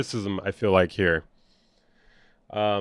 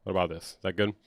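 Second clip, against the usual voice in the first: softer, lower-volume check; turned-down volume; 4 semitones lower, 6 dB quieter, faster than usual. Shown as a demonstration. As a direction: bring it down after being too loud. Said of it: "I'm too loud".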